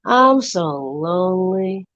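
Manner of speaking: slow, drawn-out skit aside; mock lonely lament. Skit character confesses to the camera, mock lonely. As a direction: stretch it into a mock-sad confession. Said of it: "looks at the camera and goes".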